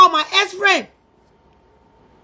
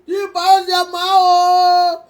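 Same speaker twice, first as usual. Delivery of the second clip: crying; slower than usual. Real, not acted. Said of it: "stop crying".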